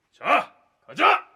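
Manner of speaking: slow, high battle cry; rallying shout. Acted. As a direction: rouse the soldiers to march. New commander rallies troops to march.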